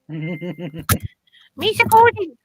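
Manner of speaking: slow, silly Elmo-like Jar Jar voice; a slow, silly put-on voice; Jar Jar gone Elmo. For friends, slow silly Jar Jar voice. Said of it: "I turned into Elmo".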